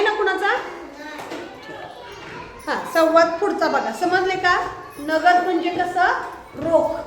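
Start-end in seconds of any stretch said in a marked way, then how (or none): 5.0-6.2 drawn-out quiz question to the class; slow question. Shown as a demonstration. Teacher slowly asking the class what नगद means. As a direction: ask it slowly so the class can answer. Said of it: "teacher quizzes the class".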